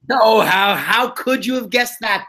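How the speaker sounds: high, drawn-out mock disbelief; sarcastically incredulous, pitched high; mock astonishment. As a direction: act amazed at the obvious. Sarcastic reply to co-host's guess.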